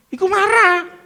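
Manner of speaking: high, hammered statement; preacher driving the point home; punched line. Acted. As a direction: land it like a punchline.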